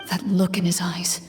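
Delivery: soft breathy whisper; whispered reflection. Real, not acted. Game master whispering about the defeated guard. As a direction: murmur it under your breath.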